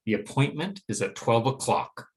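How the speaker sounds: statement with pitch dropping at O'CLOCK; falling intonation. Shown as a demonstration. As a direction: let "o'clock" fall to finish the statement. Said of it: "a falling intonation pattern".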